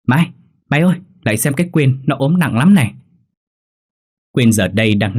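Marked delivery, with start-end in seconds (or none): 0.1-2.9 raised, urgent call for help; worried calling out. Acted. Calling a roommate to see the feverish friend, worried calling out. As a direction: summon someone to a sickbed. Calls Mai to sick friend.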